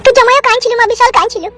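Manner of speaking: high woman's voice. Acted. Mother consoling her daughter-in-law, high pitched.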